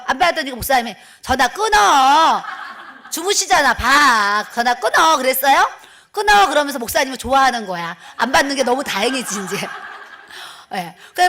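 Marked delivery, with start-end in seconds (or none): 1.2-5.2 loud urgent hushed-up pleading; loud retold husband urging; urgent hang up. 6.1-6.5 high loud urgent hang up; loud retold urgent command. Husband urging to hang up.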